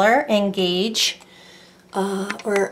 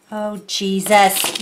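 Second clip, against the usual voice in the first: slow drawn-out dismay; dismayed exclamation; 3 dB louder, much slower than usual. Real, not acted. Crafter reacting slowly as she smushes the clay. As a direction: let it out slow as it goes wrong.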